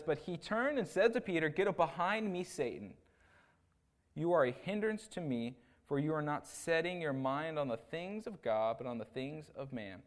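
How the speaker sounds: measured, emphatic Bible reading; deliberate public scripture reading. Acted. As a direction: read the verse out firmly, leaning on key words. Reads scripture aloud.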